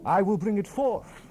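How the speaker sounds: loud, high and commanding; booming proclamation. Acted. The Lord of hosts proclaims judgement on thieves, booming. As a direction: proclaim it like God passing judgement.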